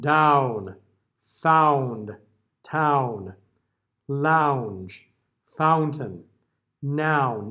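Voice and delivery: each word with the jaw dropped on an open ah; careful open demo words. Shown as a demonstration. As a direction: drop the jaw on every ow. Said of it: "I'm dropping my jaw".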